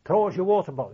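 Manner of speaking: calling out. Retold or imitated. Comrade Smith calling out for the water bottle, loud call. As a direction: shout it to a mate you can't see. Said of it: "he'd say".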